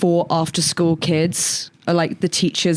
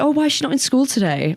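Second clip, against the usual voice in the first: high-pitched teacher voice; 7 semitones higher, faster than usual. Retold or imitated. Teacher voiced in retold story.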